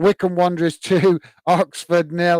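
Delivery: speaking through chuckles and laughter. Reading out football scores, laughing while talking. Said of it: "I'm laughing at Derby there".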